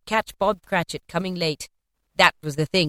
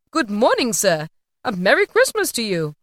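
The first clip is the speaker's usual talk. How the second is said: lightly voiced cheery passer-by, louder; good-humoured greeting; 3 semitones higher, 5 dB louder than usual. A narrator's reading. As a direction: call out a friendly greeting. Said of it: "three or four good-humoured fellows said".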